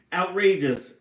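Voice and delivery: loud high roar of outrage. A narrator's reading. Papa roaring outrage about the bully. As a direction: bellow the word out in fury. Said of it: "roared Papa".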